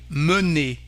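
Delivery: mener with a neutral "uh" in the first syllable; French schwa. Shown as a demonstration. Teacher showing learners the sound, French schwa. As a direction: say mener slowly as "muh-NAY". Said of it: "so the sound is un".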